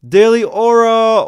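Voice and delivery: slow hyped announcer call; excited shout-out. Real, not acted. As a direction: hype the gifter's name to the chat.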